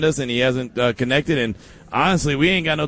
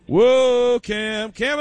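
excited whoa; 8 semitones higher, much slower than usual. Real, not acted. Host welcomes caller Cam.

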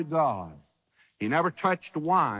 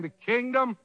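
rising proclamation; 6 semitones higher than usual. Retold or imitated. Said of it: "John the Baptist is saying".

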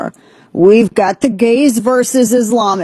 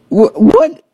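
a sudden high, startled "what?"; baffled what; 12 semitones higher, 4 dB louder than usual. Real, not acted. Host reacting to a strange training video, startled. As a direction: jump up in pitch, caught off guard.

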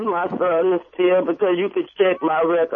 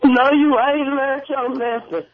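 scolding; 6 semitones higher than usual. Real, not acted. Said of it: "that's not strong".

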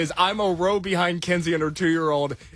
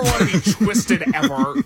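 laughing; 3 semitones higher, 5 dB louder than usual. Real, not acted. Laughs at the thought of twisting.

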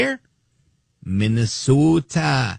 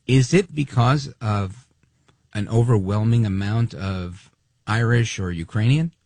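slow, snide mock question; a slow sarcastic jab at the idea; slower than usual. Real, not acted. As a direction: drag it out sarcastically. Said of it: "I'm being snide".

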